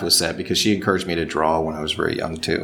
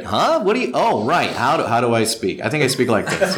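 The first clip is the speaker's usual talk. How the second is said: Lupin the Third; 5 semitones higher than usual. Retold or imitated. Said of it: "Lupin today?".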